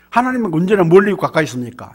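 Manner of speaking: usual speaking voice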